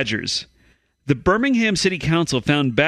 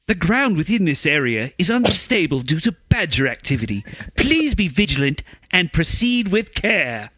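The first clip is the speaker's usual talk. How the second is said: put-on British accent; 3 semitones higher than usual. Podcaster redoing the quote as an English cousin, British accent. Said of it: "get my cousin from England on".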